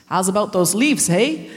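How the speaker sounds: attempted Canadian accent. Comedian mimics nasty church elders, shaky attempt at Canadian accent. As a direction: have a first go at a Canadian accent. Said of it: "managed to make this accent".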